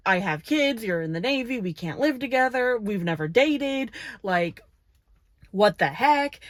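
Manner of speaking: mildly acted freak-out. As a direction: pile up objections in mock panic. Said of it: "Shiloh reasonably freaks out".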